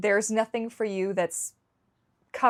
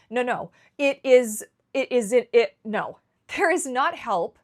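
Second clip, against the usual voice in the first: louder, pressing insistence; emphatic insistence; 5 semitones higher, 6 dB louder than usual. Real, not acted. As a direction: drive home that there is no help. Insisting no help exists.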